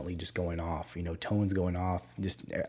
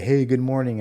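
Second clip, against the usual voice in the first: higher, louder mock greeting; imitated coworker greeting; 6 semitones higher, 9 dB louder than usual. Coworker greeting a grumpy colleague, loudly.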